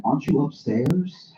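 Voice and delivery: mock-innocent disbelief; incredulous. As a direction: read the text like a disbelieving question. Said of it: "And they text back".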